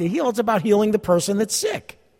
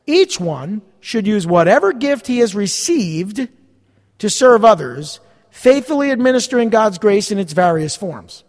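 scripture reading; 3 dB louder than usual. Real, not acted. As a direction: read the verse out deliberately, phrase by phrase. Reads verse ten aloud.

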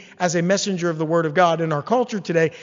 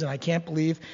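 mock grumbling; 3 semitones lower than usual. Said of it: "go on and on about how horrible your life is".

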